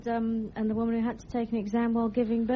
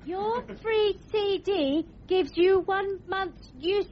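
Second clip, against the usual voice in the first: ad voice; 6 semitones higher, slower than usual. Acted. AOL woman ad voice.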